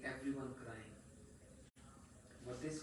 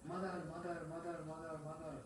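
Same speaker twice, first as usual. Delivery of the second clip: higher, repeated plaintive calls; child calling mother; 3 semitones higher, faster than usual. Acted. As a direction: call for mother over and over. Crying child runs to mother.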